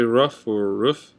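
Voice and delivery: "rough or roof", first with a short UH vowel; others' pronunciations. Shown as a demonstration. Vlogger listing how others say roof, alternative pronunciations. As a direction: say "rough" like "ruff" before "roof". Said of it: "A lot of people say".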